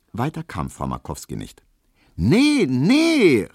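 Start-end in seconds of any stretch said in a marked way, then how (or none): 2.1-3.5 high, loud double no; crying out. A narrator's reading. Maid loudly cutting off Frau Markowski, high and loud. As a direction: shout her down, pitched up high. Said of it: "rief Hedwig".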